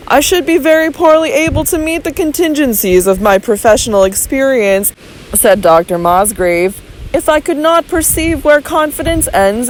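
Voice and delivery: calm medical man reasoning it through; measured physician. Acted. Physician reasoning calmly with Robert, lightly voiced doctor.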